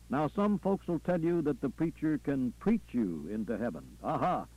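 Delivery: lightly voiced Southern preacher working the crowd; preacher, rhetorical. Preacher challenging what folks say about preachers, rhetorical. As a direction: punctuate the sermon with rhythmic interjections. Preacher resuming his sermon.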